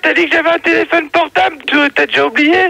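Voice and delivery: high, fast indignant voice; high fast protest. Real, not acted. Caller protests to host.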